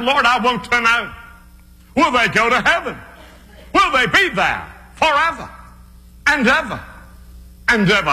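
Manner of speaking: high, pleading evangelist voice; pleading prayer. Retold or imitated. Preacher asking the Lord whether his people reach heaven, high and pleading.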